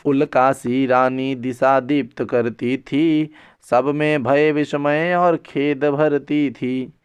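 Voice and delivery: slow, drawn-out chanting of verse; verse recitation. Acted. Teacher recites the verse describing the queen, slow recitation. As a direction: stretch each line out in measured recitation.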